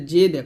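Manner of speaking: "জে দে" with a bounced final d; qalqalah on dal. Shown as a demonstration. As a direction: release the d in "জে দে" with an echo. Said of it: "কলকলা করবেন". (দালে কলকলা করে "জে দে")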